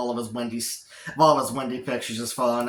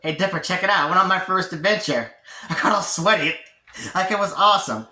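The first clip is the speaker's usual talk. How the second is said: higher-pitched, mildly hammed-up boasting; eager to impress; 6 semitones higher, 4 dB louder than usual. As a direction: show off eagerly to someone you want to impress. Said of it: "trying to impress Dipper".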